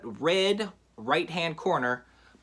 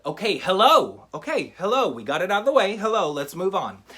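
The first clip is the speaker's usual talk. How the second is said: hammed-up irritated hellos, a bit louder; mock annoyed; 3 semitones higher, 4 dB louder than usual. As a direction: brush the kids off, fed up. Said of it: "getting more and more annoyed".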